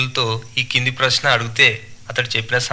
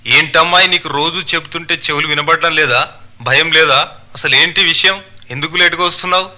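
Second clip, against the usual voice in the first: mildly raised, scolding voice; angry schoolmaster; 4 semitones higher, 3 dB louder than usual. Acted. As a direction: tick off a late pupil. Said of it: "ఆయన కోపంగా". (కోపంగా మందలించే మాస్టారు)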